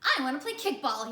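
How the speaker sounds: put-on a small boy begging to join in; child voice wanting to play; Ron pleading. Ron asking in the story.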